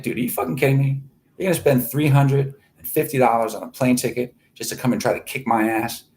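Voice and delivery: mock-incredulous comeback; incredulous retort. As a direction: scoff at him like he's a fool. Retort to a Facebook threat.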